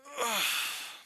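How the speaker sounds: long breathy stretching sigh; waking-up sigh. Acted. Preacher as Jesus rising from sleep, waking-up sigh. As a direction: sigh as if just getting up.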